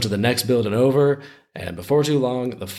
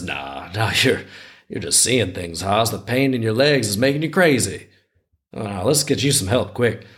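lightly voiced Southern looter; terrible Southern accent. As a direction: brush it off in a mild Southern twang. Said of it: "I got to do a terrible Southern accent".

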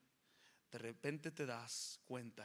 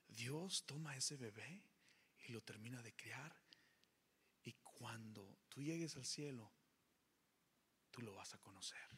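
gentle comfort; 5 dB quieter than usual. Retold or imitated. Nurse softly comforting the weeping father in hospital. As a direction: soothe him softly like the nurse.

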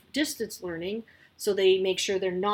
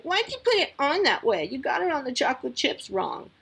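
put-on higher, louder sassy kid complaint; bratty daughter; 6 semitones higher, 4 dB louder than usual. Mother voicing her daughter complaining about the pancake, high bratty whine.

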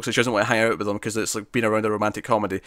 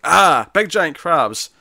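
mock alarm; 5 semitones higher, 4 dB louder, much slower than usual. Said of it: "and they're like".

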